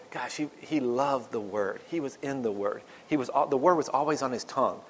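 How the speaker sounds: a mourner fondly remembering a man who loved the Word; reverent. Retold or imitated. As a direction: speak it like a tender eulogy. Hoped-for remembrance of his life.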